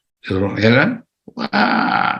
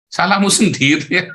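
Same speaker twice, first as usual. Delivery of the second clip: laughing; 6 semitones higher than usual. Real, not acted. Laughing at those who get hurt.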